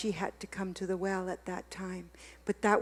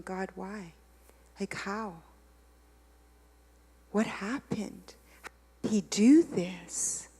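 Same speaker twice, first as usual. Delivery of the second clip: tearful hushed plea; slower than usual. Retold or imitated. Crying, pleading with God.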